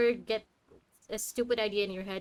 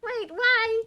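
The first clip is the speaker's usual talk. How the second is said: mock surprise; 14 semitones higher, 8 dB louder than usual. Streamer voices protest at game scolding.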